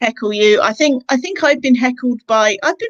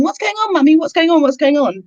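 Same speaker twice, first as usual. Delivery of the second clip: imitated toddler; 6 semitones higher, 3 dB louder than usual. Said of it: "About two years old".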